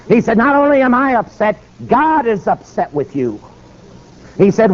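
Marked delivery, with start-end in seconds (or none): 0.4-3.4 high-pitched righteous scolding, slowing down; stern rebuke. Retold or imitated. Preacher rebuking the apologetic governor, righteous. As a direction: pronounce judgment, slowing for weight.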